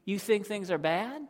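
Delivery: God warning the prophet, building then dropping; voicing God. Preacher voicing God to Habakkuk, stern warning. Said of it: "God comes and says".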